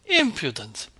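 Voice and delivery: sharp, loud scolding cry; scolding outburst. A narrator's reading. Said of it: "the voice of Marva Kuzminitcha".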